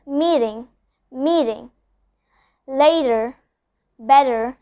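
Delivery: meeting, later, better with the T as a soft D; soft flapped T. Shown as a demonstration. Teacher showing the soft D sound. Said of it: "a very soft D sound".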